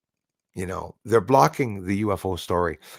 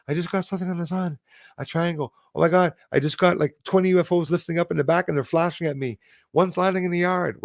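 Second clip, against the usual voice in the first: higher-pitched, hurried mock excitement; excited sighting report; 8 semitones higher, faster than usual. Host previewing summer sighting videos to viewers, hammed-up excitement.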